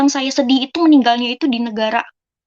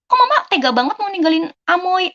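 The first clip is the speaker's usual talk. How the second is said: higher-pitched hurt plea to mother; retold protest; 6 semitones higher than usual. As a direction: protest as a daughter being left with the child.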